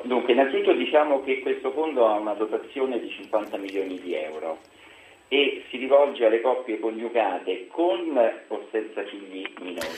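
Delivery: distant, hollow speakerphone sound. Real, not acted. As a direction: caller talking on speakerphone, far from the mic. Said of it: "è al viva voce per caso?".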